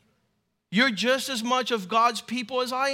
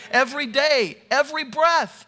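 higher, louder preaching; emphatic exhortation; 4 semitones higher, 6 dB louder than usual. Real, not acted. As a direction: lift it up to rouse the congregation. Exhorting the congregation to thanks.

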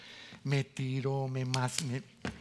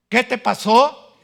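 "¿Qué te pasó?" much higher and louder, slow, rising on "¿Qué"; shocked question; 9 semitones higher, 17 dB louder, slower than usual. Acted. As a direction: gasp it out in shock. Wife shocked by his change.

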